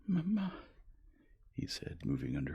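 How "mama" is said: put-on child's cry. A narrator's reading. Sleepy child greeting mother.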